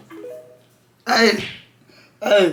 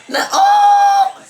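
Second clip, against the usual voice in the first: much higher, laughing yelp; excited. Real, not acted. Amazed by the dancer, high laughing yelp. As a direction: squeal at the move.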